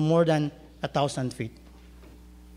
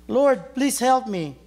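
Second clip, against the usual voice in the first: slow pleading; 6 semitones higher, 4 dB louder, slower than usual. Acted. Jack pleads on the branch.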